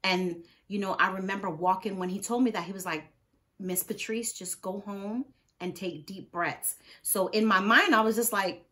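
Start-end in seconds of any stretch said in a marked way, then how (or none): 3.6-6.8 calm doctor. Retold or imitated. Doctor sending a sick patient home, calm and soft. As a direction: imitate a doctor gently dismissing a patient.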